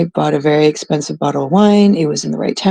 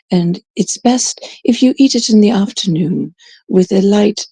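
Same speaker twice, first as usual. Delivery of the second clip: slightly raised pitch, mock-refined wine patter; wine snob; 2 semitones higher than usual. Mocking how they describe wine, wine snob impression. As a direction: imitate a precious wine description, lightly put on. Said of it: "you know how they say".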